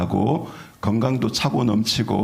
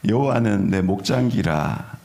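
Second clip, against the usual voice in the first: Psalm line in a light Gyeongsang accent; Gyeongsang dialect. Shown as a demonstration. Pastor reading Psalm 23 to the congregation in a Gyeongsang accent. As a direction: recite it like a Gyeongsang local, half joking. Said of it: "경상도 버전".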